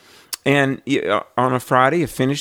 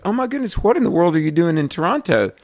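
mock surprise; 5 semitones higher, faster than usual. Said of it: "she said".

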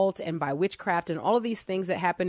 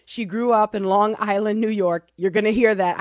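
excited; 3 semitones higher, 6 dB louder than usual. Real, not acted. Excited intro of guest.

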